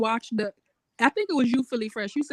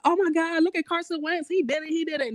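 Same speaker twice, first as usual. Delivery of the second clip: mock awe; 6 semitones higher than usual. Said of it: "so people could be like".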